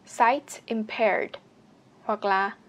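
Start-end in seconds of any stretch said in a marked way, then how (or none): 0.1-1.3 very slow. Shown as a demonstration.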